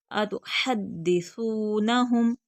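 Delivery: slow अतुहद्दिसूनहुम, firm द्द and long सू like th; drawn out, no whistle. Shown as a demonstration. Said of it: "बगैर सिटी के खींच कर". (अतुहद्दिसूनहुम, सा बिना सीटी, खींच कर)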